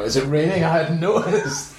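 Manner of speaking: drip with sarcasm, half laughing; sarcastic. Shown as a demonstration. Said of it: "that line was supposed to be sarcastic".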